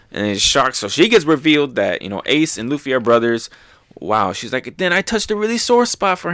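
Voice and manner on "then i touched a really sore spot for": Otama voice. Retold or imitated. Otama worried after reveal.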